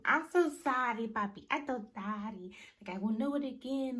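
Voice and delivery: imitating a girlfriend crying sorry on the floor; mock crying apology. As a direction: ham up a teary apology to her man. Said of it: "starts fucking crying".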